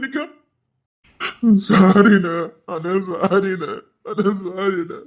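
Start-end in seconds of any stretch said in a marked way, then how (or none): 1.7-5.0 tearful sorry. Acted. Repeated tearful apology.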